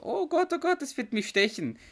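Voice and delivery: put-on high-pitched panicked child's cry; mock panicked child. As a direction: squeal it like a kid fleeing a bee. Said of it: "schreit das Kind auch so".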